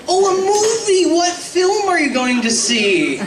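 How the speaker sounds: mock grandfather fussing over a movie; grandpa voice. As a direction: play a curious old grandfather.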